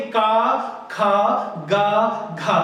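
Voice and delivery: का, खा, गा, घा made at the throat, one at a time; throat consonants demonstrated. Shown as a demonstration. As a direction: sound out का, खा, गा, घा separately from the throat. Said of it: "आवाज आ कहां से रही है".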